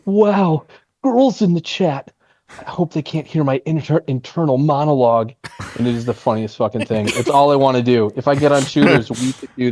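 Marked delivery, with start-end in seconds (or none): 0.1-5.3 cute breathy-free anime girl impression, raised pitch. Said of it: "he does his anime voice".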